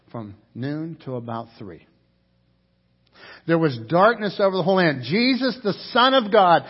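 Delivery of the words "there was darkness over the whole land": quick, pressing repeat with darkness stressed; fast repeat. Shown as a demonstration. Preacher repeats the verse to the church, fast and urgent. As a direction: drive the verse home quickly.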